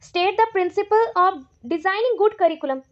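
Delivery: very slow, word by word, for students to write down; reading an exam question aloud at dictation pace. Shown as a demonstration. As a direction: dictate it slowly so they can copy.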